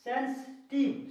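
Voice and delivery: सेंसिटिव said slowly with a short final "-tiv"; correct reading of सेंसिटिव. Shown as a demonstration. Teacher shows students how to read सेंसिटिव, slow model pronunciation. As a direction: model सेंसिटिव deliberately, ending on a clean v. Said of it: "ऐसे पढ़ेंगे".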